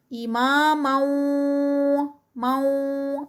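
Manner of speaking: مو said with rounded lips. Shown as a demonstration. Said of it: "lips کو round کر کے".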